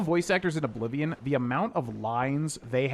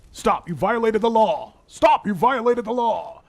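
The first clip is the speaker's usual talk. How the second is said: loud, slow, high guard shout; guard voice impression; 9 semitones higher, 8 dB louder, slower than usual. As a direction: bellow it like a town guard. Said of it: "I can't get there".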